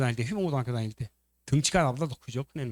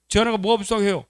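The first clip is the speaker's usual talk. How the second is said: high, louder acted retort; indignant; 7 semitones higher, 5 dB louder than usual. Husband rejects the idea his wife is pitiable, indignant. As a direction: protest as if insulted.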